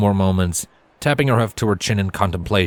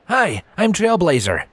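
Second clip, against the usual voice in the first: higher, slow friendly greeting; teen Trailblazer; 8 semitones higher, slower than usual. Acted. Lanky teen meeting Silver, higher and friendly.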